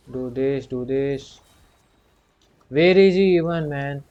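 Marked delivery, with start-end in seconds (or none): 2.7-4.0 louder, higher, fed-up yell; exasperated shout. Real, not acted. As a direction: call out, fed up with the boss. Boss keeps running away.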